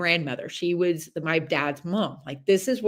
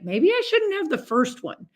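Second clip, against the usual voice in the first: inner voice; 9 semitones higher than usual. Retold or imitated. Self voiced inner thought.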